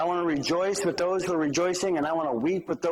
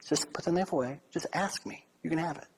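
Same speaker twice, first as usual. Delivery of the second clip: calm and softer, unhurried; 5 dB quieter than usual. Retold or imitated. Old woman calmly tells the robber to ask instead, soft and calm. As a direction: gently settle him down. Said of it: "she just very calmly said".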